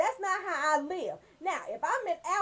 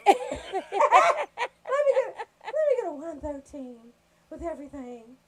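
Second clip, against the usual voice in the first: hammed-up order; 5 dB louder, slower than usual.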